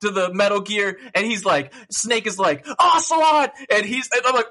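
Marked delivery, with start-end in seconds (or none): 2.8-3.5 high, loud dramatic call of a name; hammed-up shout. Snake confronting Ocelot, hammed-up shout. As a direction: call out the villain's name like a game hero.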